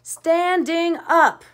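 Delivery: high, loud, very slow yell; arguing townspeople, drawn-out yell. A narrator's reading. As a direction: drag the demand out in a yell. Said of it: "yelled and yelled".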